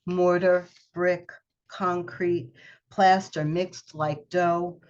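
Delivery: slow, measured poetry reading; poem reading. Acted. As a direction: let each image land, unhurried. Reads her poem aloud.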